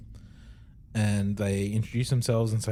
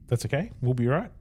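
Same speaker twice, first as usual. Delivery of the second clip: mock Australian; faster than usual. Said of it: "They must be Australian".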